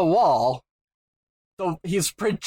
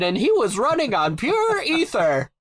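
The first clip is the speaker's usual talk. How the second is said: put-on old writer voice; 6 semitones higher than usual. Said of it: "the eighty-five-year-old writer".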